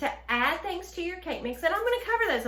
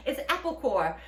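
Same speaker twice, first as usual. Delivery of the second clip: British-sounding attempt; 2 semitones higher, 4 dB louder than usual. Shown as a demonstration. Host trying to say apple core, faintly British accent. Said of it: "She sounds British".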